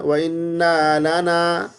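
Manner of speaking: وَإِنَّ لَنَا with the noon dragged out too long; wrong long noon. Shown as a demonstration. Teacher shows the mistake of a long noon. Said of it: "نون کو بھی لمبا نہیں کرنا".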